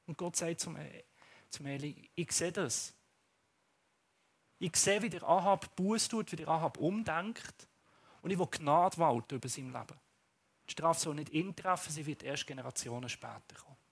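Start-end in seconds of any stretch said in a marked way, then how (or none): 2.1-13.8 softer, lower solemn mercy; God's voice. Acted. God telling the prophet of mercy. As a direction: speak with gentle authority.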